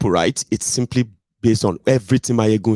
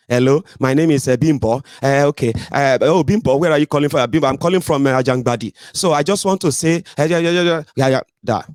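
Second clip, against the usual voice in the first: higher, lively imitation of a radio call-in; mock phone-in; 5 semitones higher, 3 dB louder than usual. Host mocks a dumb radio station call-in exchange, mock phone-in. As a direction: act out both host and caller, pitched up. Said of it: "radio station phone calling".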